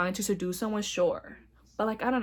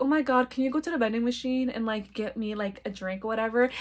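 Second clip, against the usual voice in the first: flirty request; 5 dB quieter than usual. Retold or imitated. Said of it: "a way to be flirty and seductive".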